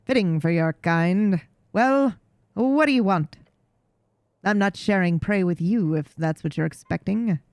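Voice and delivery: a lightly voiced haughty cat, bored and proud; jaded regal cat. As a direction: talk down to the human like a weary noble cat. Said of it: "jaded, regal tone".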